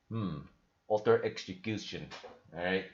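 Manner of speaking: a put-on Russian accent, broken English; mock Putin in a thick Russian accent; fake Russian accent. Host mocking Putin threatening Bitcoin critics in fake Russian accent. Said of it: "fake Russian accent".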